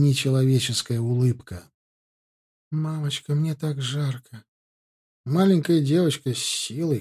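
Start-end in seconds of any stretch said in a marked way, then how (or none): 2.7-3.3 put-on eerie child voice. Possessed child speaks. 3.3-4.4 put-on slow, soft eerie little girl; eerie child voice. Possessed child speaks.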